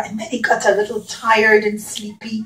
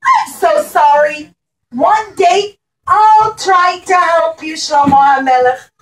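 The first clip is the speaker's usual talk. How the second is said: higher, sorry little bee voice; apologetic bee; 3 semitones higher, 4 dB louder than usual. Acted. The bee apologizes to the king, higher and sorry. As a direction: plead sorry like a small bee. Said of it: "the bee said".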